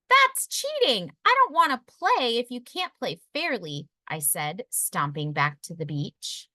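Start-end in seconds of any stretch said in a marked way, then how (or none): 0.1-3.9 put-on a child's cross, high cry of cheating; indignant protest. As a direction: pout and protest it's unfair. Pinkalicious protests angrily.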